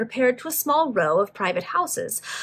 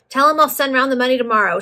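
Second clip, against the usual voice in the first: raised, higher voice, moderate shout; shouted from inside; 4 semitones higher, 6 dB louder, faster than usual. A narrator's reading. Debtor putting off the collector, mild shout. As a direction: call it out through a closed door. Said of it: "shouted a masculine voice inside".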